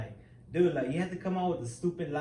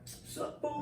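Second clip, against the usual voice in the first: mock whispered greeting; 11 semitones higher, 8 dB quieter than usual. Greeting at the yard.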